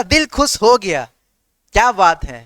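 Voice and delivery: slow, savouring delight; slow and relishing, as if hearing a great joke; delighted exclamation. Shown as a demonstration. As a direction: drawl it out like a pleased listener. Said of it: "किसी से बोलते हैं ना".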